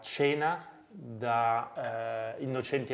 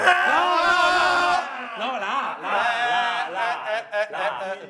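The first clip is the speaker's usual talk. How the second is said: high, loud excited no no; excited protest; 12 semitones higher, 8 dB louder, much slower than usual. Real, not acted. Protesta concitata sul quiz. (protesta concitata ad alta voce)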